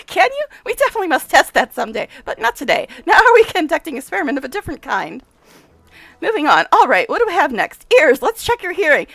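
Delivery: lightly played brisk, self-important scientist; a touch of the mad professor, pleased; eccentric scientist. Nenio eager.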